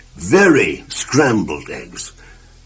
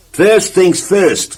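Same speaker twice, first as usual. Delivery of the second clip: higher, louder, very slow first things first; slow, raised self-important pronouncement; slow, deliberate; 8 semitones higher, 4 dB louder, much slower than usual. Acted. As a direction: drag it out proudly. Same slow catchphrase.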